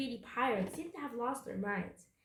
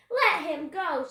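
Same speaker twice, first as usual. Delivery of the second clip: loud, raised-pitch demand; bold demand; 6 semitones higher, 9 dB louder, slower than usual. A narrator's reading. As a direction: order the bully off, loudly. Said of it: "Annie charged up to the biggest pirate".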